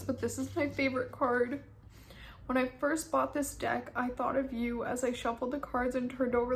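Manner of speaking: real tears breaking into the reading; reading through tears. Real, not acted. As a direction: read the letter aloud while crying. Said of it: "I was literally bawling my eyes out".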